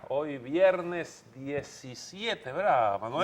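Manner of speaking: cavernous voice. Pretend. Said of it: "es una voz cavernosa".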